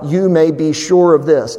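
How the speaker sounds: mildly emphatic verse reading; stated with a touch of insistence. Acted. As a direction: read out firmly, pressing on each phrase. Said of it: "Now that's very emphatic".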